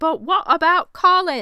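very high, very loud shrieking scream. Retelling a scene where Penelope screams at Marina: imitating Penelope screaming. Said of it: "Penelope just screams".

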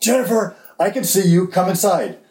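high, full-lung, top-of-the-lungs bellowing yell. Recounting calling out to Jennifer, retelling a full-volume yell. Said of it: "I yell at the top of my lungs".

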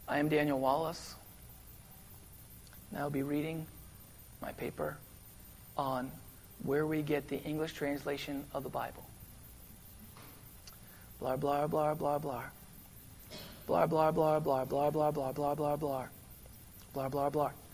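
put-on flat, boring, whispered, breathy monotone drone. Acting out a speaker reading his paper at a lecture series, as a monotone, boring Daniel Wallace impression. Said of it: "Monotone, boring".

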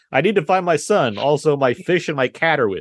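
put-on kindly old man voice. Mocking a live-action scene, imitating old Tom Hanks. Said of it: "when old Tom Hanks is like".

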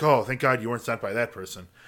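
ordinary delivery

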